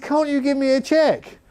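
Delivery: high strained plea; the manager asking for a cheque instead; pinched high voice asking; John Weller's accent. Retold or imitated. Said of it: "I can't do the accent properly now".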